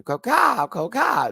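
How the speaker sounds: high, loud bird call; mock bird cry, swooping up; toucan squawk. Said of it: "very Toucan".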